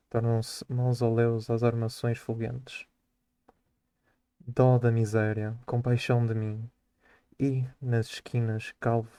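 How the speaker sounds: measured poetry reading for class; poem recitation. Acted. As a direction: read the verse with steady, even weight. Student reads poem aloud.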